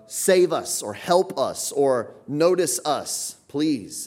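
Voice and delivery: mock urgent cry for help; urgent plea. Shown as a demonstration. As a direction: beg them to notice you. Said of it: "supposed to have that please on it".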